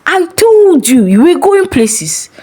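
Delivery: put-on slow, hushed, knowing older man; he savours each word slowly; slow pastor voice. A narrator's reading. Pastor praising Farida's admission, slow hushed voice. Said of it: "nodded slowly and said".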